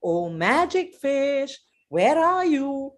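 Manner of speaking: slow, drawn-out call to the fish; calling the magic fish. Acted. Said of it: "and goes".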